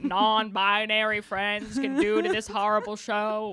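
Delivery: put-on slow, lightly done Kennedy-style oratory accent; a hint of Kennedy accent, drawn out. Podcaster parodying a Kennedy speech about a show, slow mock Kennedy accent. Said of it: "like a Kennedy accent mixed with a Southern accent".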